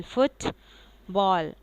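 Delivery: फुटबॉल split slowly into फुट and बॉल; फुटबॉल drawn out, falling on बॉल; two-syllable demo. Shown as a demonstration. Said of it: "दो दो syllable पे मुश्तमिल".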